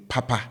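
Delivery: "papa" with both syllables held high. Shown as a demonstration. Teacher showing learners the first Twi word, high-high tone on "papa". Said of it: "So they are high".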